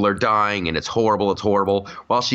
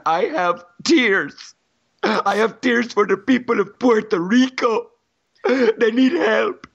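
King Julian voice; 9 semitones higher than usual. Retold or imitated. Host mocks mayor selling shirts, as high cartoon king. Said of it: "It's King Julian".

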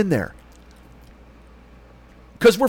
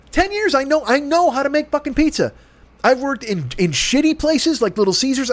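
heated; 3 semitones higher than usual. Retold or imitated. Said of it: "I'm swearing, I'm that loud".

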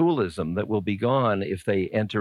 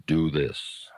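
inner voice whisper; 7 semitones lower than usual. Pretend. Inner voice answering the question.

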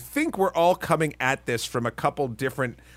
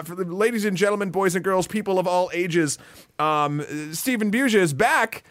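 grand entrance announcement; 3 semitones higher than usual. Acted. Host introduces the guest.

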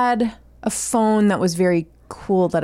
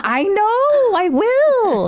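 higher-pitched mom reply; 11 semitones higher, much slower than usual. Retold or imitated. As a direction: answer like a weary mom. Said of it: "I always have to say".

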